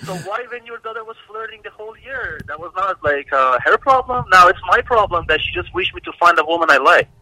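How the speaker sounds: high, slow indignant protest in English; indignant retort. Retold or imitated. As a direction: argue back at the mother, rising to loud. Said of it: "argues back at ex's mother". (معترض و بلند با لحن طلبکارانه)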